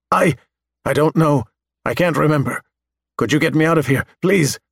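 almost weepy. Acted. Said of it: "sounds almost weepy".

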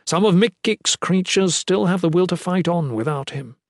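lightly voiced deferential lord; courteous captor, reverent. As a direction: make polite apologies to a holy lady.

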